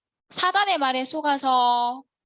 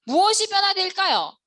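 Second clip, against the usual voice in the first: higher and louder, pressing the class; louder, emphatic question; 7 semitones higher, 4 dB louder than usual. Real, not acted. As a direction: ask again, louder and higher. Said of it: "세 가지가 변화된다 했어요".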